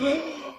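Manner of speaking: mock collective gasp; sharp, high intake of air, acted out; shocked gasp. Whole table reacting to his challenge, shocked gasp. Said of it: "they were all like".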